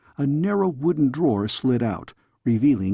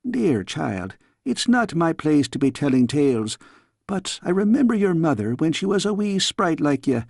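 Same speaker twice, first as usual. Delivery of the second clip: lightly voiced Scots nanny, teasing scold; a fond old nurse chiding in a Scots lilt; a hint of a Scottish nursemaid; 4 semitones higher than usual. Nanny figure scolding the girl.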